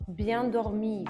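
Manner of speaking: ordinary delivery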